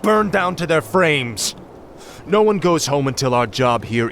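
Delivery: stern order. Acted. Ordering ships burned.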